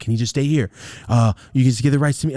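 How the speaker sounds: begging, imploring, pleading tone. Retelling asking a grandma to let him stay: retelling a plea. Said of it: "I'm pleading with my grandma's".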